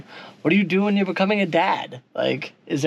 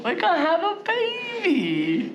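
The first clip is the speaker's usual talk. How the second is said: higher, slower joyful announcing; excited; 11 semitones higher, slower than usual. Real, not acted. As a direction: announce it with joy. Announcing the baby.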